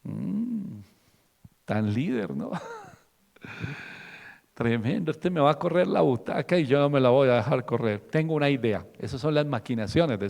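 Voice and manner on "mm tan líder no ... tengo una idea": lightly voiced scheming king; a hint of a jealous, plotting king; scheming Saúl. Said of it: "Saúl empieza a echarle ojo".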